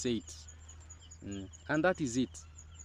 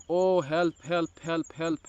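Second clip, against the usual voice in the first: mock crying; 4 semitones higher, slower than usual. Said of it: "is crying like".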